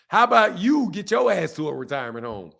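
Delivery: "you" lifted and leaned on; stress on YOU. Real, not acted. Streamer throwing the retirement home jab back, stress on "you". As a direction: turn it back with a heavy "you".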